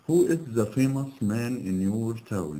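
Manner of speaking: a slow read of the sentence with no "most"; slow error reading. Shown as a demonstration. Teacher reads the faulty exercise question to the class. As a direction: read "Who is the famous man in your town" slowly with a falling "Who". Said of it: "نحط قبلها the most".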